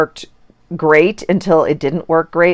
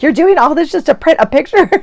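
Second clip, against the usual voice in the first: put-on high, disbelieving teen voice; incredulous daughter; 10 semitones higher than usual. Daughter teasing mom about printing one picture, high and disbelieving. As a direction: play the daughter who can't believe it. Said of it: "She's like".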